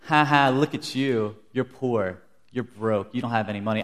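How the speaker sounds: lightly mocking cashier; mild playground-style taunt. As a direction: poke fun, starting loud with a fake "ha ha". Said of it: "she's mocking me".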